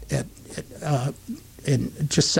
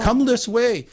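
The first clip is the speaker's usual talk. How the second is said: higher-pitched mock host's invitation; imitated tuxedoed clipboard man; fawning greeter; 7 semitones higher, slower than usual. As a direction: usher the VIP in like an eager doorman. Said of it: "this big guy in a tuxedo's got the clipboard".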